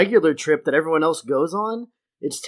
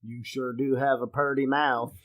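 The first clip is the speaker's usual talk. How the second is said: hillbilly drawl; 5 dB quieter than usual. Acted. Quotes Deliverance hillbilly.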